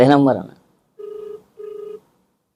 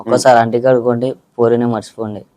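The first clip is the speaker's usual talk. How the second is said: punchy reel dialogue; 4 dB louder than usual. Pretend. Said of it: "ఒకసారి కొట్టా dialogue".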